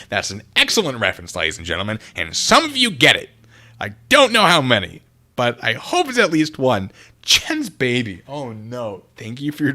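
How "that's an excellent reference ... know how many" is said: normal talking voice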